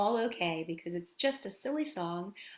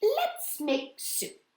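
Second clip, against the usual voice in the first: bright mother; 10 semitones higher, much slower than usual. Acted. Mother proposes making soup.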